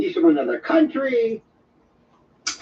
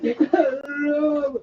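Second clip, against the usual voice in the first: mock wailed hello; imitated crying greeting; 4 semitones higher than usual. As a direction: wail a greeting as if in tears. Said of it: "sounds like he's crying".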